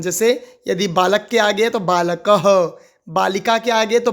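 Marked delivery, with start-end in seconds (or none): 1.8-2.4 बालकः ending in an audible "ha"; बालकः as "baa-la-ka-ha"; visarga pronounced. Shown as a demonstration. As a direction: add a short "ha" after the k of बालकः. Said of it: "ह का उच्चारण करते हैं हम".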